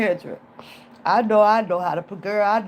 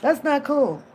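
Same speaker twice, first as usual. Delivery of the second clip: guilty self-talk; 4 semitones lower, 3 dB quieter than usual. Retold or imitated. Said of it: "I be saying that to myself".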